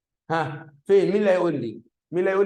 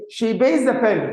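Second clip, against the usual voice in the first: slow read-out; 3 semitones higher, much slower than usual. Shown as a demonstration. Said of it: "قال لك إيه؟".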